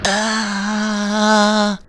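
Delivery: high straining yell; battle scream. Acted. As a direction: scream with full effort. Attack scream.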